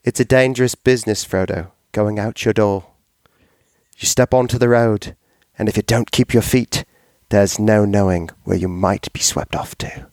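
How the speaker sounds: lightly put-on storybook accent, a bit quick; hammed-up reading of a fantasy quote in a faint accent; put-on accent for a Tolkien quote. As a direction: recite Bilbo's line in a mild mock accent. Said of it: "I'll do it in the accent for you".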